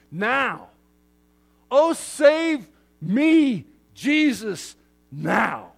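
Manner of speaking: slow, loud, high cry to be saved now; urgent plea. Retold or imitated. Preacher voicing a desperate believer, slow loud plea. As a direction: beg for it, drawing each word out.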